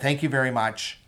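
imitating a British accent, lightly; a polite thanks with a hint of British accent. Superman actor thanking a fan, imitated British accent. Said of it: "in his British accent".

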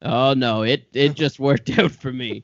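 low, slow smug billionaire; smug villain. Acted. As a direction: gloat in a low voice. Bill Gates gloating.

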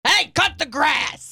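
slow high holler; calling out. Pretend. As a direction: shout it across the yard, slowly. Calling out to mower.

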